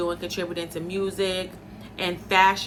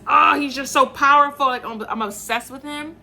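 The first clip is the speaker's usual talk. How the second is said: gushing; 6 semitones higher, 5 dB louder than usual. Real, not acted. Gushing about Dave.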